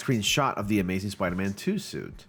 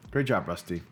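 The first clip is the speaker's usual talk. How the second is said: whisper; 3 semitones lower than usual. Real, not acted. Reviewer whispers praise to Rusty for his shot. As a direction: breathe the praise with no voice.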